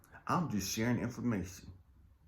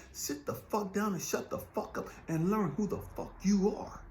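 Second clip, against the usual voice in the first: whispered voice of God; 9 semitones higher than usual. Acted. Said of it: "God's way of saying".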